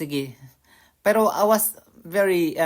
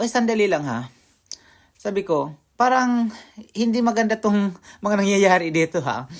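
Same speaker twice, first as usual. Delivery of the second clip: raised, louder retold complaint; retold anger; 3 semitones higher, 5 dB louder than usual. Man scolding taxi driver over meter, raised and firm. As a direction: press the driver hard, half-angry. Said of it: "parang galit na ako".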